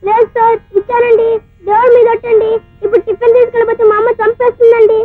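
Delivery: put-on upset boy begging to be believed; tearful pleading. Boy swearing to a shopkeeper that he paid, tearful pleading. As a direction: plead as if close to crying. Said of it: "చిన్న కుర్రాడు ఏడుస్తా ఉంటే".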